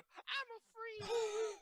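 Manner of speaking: high, slow laughing mock proclamation; laughing at being called a woman. Real, not acted. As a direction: giggle out the words in disbelief. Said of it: "I'm laughing because she called me".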